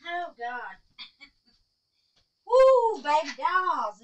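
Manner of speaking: high, loud laughing whoop; laughing exclamation. Real, not acted. Calling to baby dolls after laughing, amused whoop. Laughing over a tiring day.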